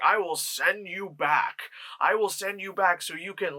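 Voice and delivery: imitating a mystical guide; mock solemn deity. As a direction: intone it like a spirit in purgatory, half-whispered. Voices afterlife figure Kronos.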